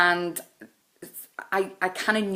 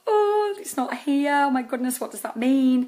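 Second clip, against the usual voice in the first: anxious family; 9 semitones higher, 5 dB louder than usual. Retold or imitated. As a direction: play the worried parents waiting on the post. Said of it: "everybody would be like".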